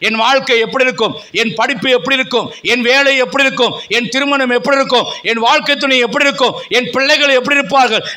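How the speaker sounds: declaimed sermon in rhythmic, insistent phrases; fervent preaching. Real, not acted. Preacher telling the fearful that God is with them, fervent preaching. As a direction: press each question and promise on the listeners.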